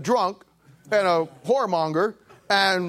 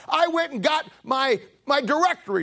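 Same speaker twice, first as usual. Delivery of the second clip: imitating an excited lady, pitched up; 7 semitones higher than usual. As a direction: start her story breathless with excitement. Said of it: "She says".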